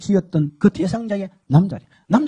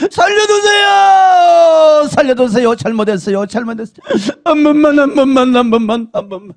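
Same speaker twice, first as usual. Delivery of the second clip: begging for mercy; 4 semitones higher, 6 dB louder than usual. Retold or imitated. Tormented woman begging for mercy, crying loudly. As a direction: beg for your life in agony. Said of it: "막 견딜 수가 없는 거예요".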